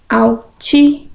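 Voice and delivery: "Altíssimos" broken up with long pauses; syllable by syllable. Shown as a demonstration. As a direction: spell out "Altíssimos" by syllables, slowly. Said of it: "Separação de sílabas".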